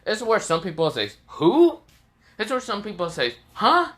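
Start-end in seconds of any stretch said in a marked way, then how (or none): 1.3-1.8 puzzled who. Acted. People don't know Naruto's name. 3.5-3.9 high, baffled huh; much higher, confused squeak. Acted. Bystanders baffled by a name they forgot, confused.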